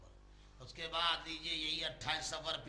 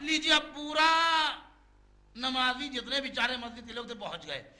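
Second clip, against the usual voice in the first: loud, raised pulpit voice; preaching at full force; 9 semitones higher, 10 dB louder than usual. Real, not acted. Preacher telling worshippers of mosque-goers visiting the sick, loud preaching. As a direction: project it high to the whole congregation.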